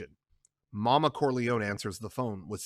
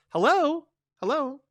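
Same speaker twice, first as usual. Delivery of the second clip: much higher, louder hello; answering sharply, expecting someone; Connie on the phone; 5 dB louder than usual. Acted. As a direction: Connie picking up the ringing phone.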